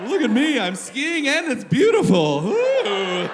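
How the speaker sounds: high, loud, swooping gushing voice; mock telemark skier. Mocking a telemark skier showing off, hammed-up gushing. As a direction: gush in a singsong, hammed-up mockery.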